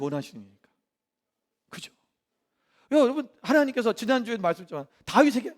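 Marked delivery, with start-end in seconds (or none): none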